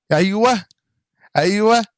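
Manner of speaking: eager recognition; excited yes. Real, not acted. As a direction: jump on it as you remember. Recalling, excited agreement.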